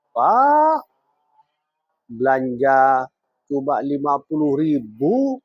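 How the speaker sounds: omelan istri ke suami, nada naik makin tinggi; istri kasar. Acted. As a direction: scold your husband harshly, pitch climbing as the complaint goes on. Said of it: "perkataan kasar seorang istri kepada suami". (istri mengomel kasar)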